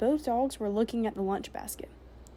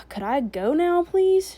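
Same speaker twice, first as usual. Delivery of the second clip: much higher, louder pleading please; impatient; 8 semitones higher, 7 dB louder, slower than usual. A narrator's reading. Girl to soldier, impatient and exasperated. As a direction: whine to be let go, exasperated. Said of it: "she asked impatiently".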